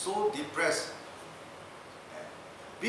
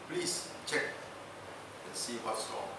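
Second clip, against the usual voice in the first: hushed plea; 6 semitones lower, 11 dB quieter than usual. Retold or imitated. Governor asks the doctor.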